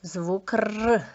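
"Р" as an isolated rolled trill; teacher demonstrating the trilled sound "Р"; clear articulation. Shown as a demonstration. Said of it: "Чітко вимовляєте".

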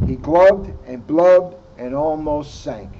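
bubbly sinking voice; glubbing underwater. Acted. Narrator showing Froggy sinking, bubbly and gurgling.

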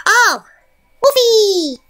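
high, loud call across the room; startled high call for a pet. Real, not acted. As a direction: call out for the wolf. Calling out for a pet.

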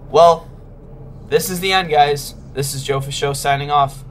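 resigned game-over; mock doom. Real, not acted. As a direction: announce defeat theatrically. Caught by monster.

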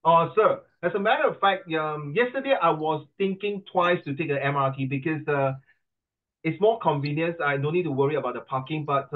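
slightly gushing model oral answer; polished exam answer. Shown as a demonstration. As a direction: answer the examiner with measured formality. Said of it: "You think it's, uh, 很恶心嘞，很肉麻嘞。".

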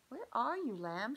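high, loud calling out; crying out. Acted. Emma searching for lost Lamb, calling out loud and high. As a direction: call across the farm for him. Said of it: "she cried".

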